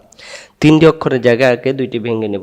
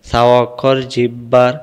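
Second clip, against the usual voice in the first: memorization recitation. Shown as a demonstration. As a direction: recite it evenly, syllable by syllable.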